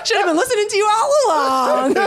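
words breaking into laughter; can barely talk for laughing; laughing through words. Real, not acted. Laughing while joking.

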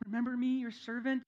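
a hint of a whiny servant begging notice; pleading Moses. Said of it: "he's saying".

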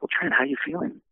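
high, sing-song imitation of the reporter; mock commentator voice. Trent imitating the reporter asking how he feels, high and chirpy. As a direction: lift way up to mimic her chirpy question.

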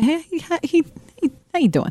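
high, bouncy fake-cheerful hello; a touch of put-on cheer; mock friendly greeting. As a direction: greet him with overdone brightness. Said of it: "I said".

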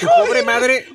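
mock crying. Mock lament about his mother.

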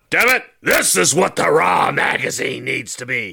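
shouted, blustering boss impression; hammed-up shouting tycoon voice; Vince McMahon. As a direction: bellow it like a fired-up boss, stretching the last word long. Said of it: "Vince McMahon, you know, coming back as like".

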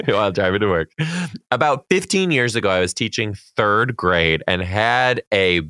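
slow, measured read-aloud voice; reading a letter aloud. A narrator's reading. Podcast host reading a teacher's fan letter, slow read-aloud. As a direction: read it out deliberately, stretching the key words.

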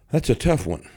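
ordinary talk

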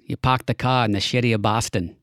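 joking Boston accent, dropped r's. Shown as a demonstration. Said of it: "That is".

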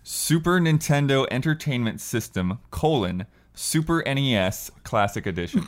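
slow, each word spelled out carefully; over enunciating. Shown as a demonstration. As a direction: read the title out slowly and deliberately. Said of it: "Repeat that one more time slowly".

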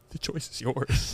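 soft, slow, low pretend masseur; hushed offer. Pretend masseur offering himself to the client, hushed. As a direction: lay it out gently and slowly. Plays masseur in imagined scene.

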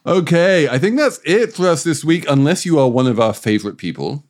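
lively, measured presenter delivery; emphatic host outro with stretched key words; podcast host sign-off. Acted. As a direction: wrap up the show for listeners.

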